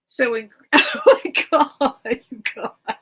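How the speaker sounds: real sob breaking into the words; crying. Real, not acted. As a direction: overcome by tears, drawn out. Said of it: "why is this making me cry".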